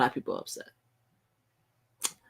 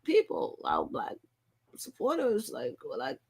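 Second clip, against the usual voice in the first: high, incredulous what-is-going-on; exasperated, much higher questioning; baffled outburst; 9 semitones higher, 4 dB quieter than usual. Retold or imitated. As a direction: throw it up high in disbelief. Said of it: "And I'm like".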